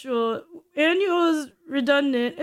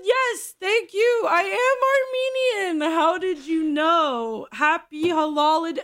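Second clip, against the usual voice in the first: faked Armenian reply. Pretending to a stranger to be Armenian, mock eager. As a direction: sing it out brightly, a touch silly. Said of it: "I could have said".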